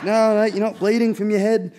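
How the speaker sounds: high, loud mocking mate voice. Mates teasing rider who thinks he is bleeding, loud mock shout.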